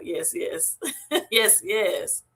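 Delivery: half laughing, half crying with joy; laughing through tears. Real, not acted. Streamer overwhelmed by a viewer's love, laughing and teary. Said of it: "I'm so elated right now".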